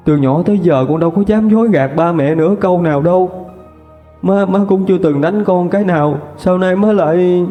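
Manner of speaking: high, tearful pleading; a hurt daughter choking out her plea; choked up. Acted. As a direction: beg through the tears. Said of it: "cô nghẹn ngào nói".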